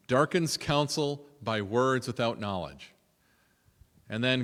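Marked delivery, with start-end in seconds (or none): 0.1-2.9 slow, weighing each word "Darkens"; slow savoring. Shown as a demonstration. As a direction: linger over "Darkens counsel" slowly. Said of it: "what a great line".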